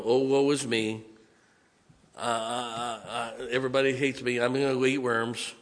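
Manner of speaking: a hammed-up self-pitying moan with a fake sob; mock whimpering complaint; mock woe-is-me whine. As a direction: play the sulker feeling sorry for himself. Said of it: "That's a sulking self-pity attitude".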